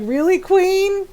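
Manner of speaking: high, slow "Really, Queen?"; incredulous sass. Retold or imitated. Challenging the friend who says purple, slow and sassy. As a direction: stretch it out with sass. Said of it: "I was like".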